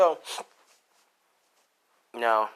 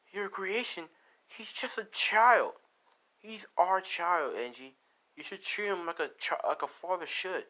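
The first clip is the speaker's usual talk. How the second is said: upset mother; 8 semitones higher than usual. Acted. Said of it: "she's like".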